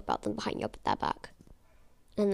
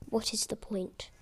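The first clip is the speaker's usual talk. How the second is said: unvoiced, much softer echo; whispered repeat; 6 dB quieter than usual. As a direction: whisper it to yourself, defeated. Repeating the retort under her breath.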